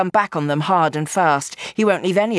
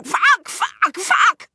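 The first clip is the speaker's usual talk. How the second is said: agonised swearing; 14 semitones higher, much slower than usual. Acted. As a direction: swear through searing pain. Gangster in pain swearing.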